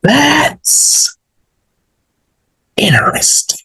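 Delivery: high, drawn-out "that's interesting"; high-pitched pondering reaction; intrigued. Real, not acted. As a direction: muse aloud slowly, pitched high. Mulling over what was just read.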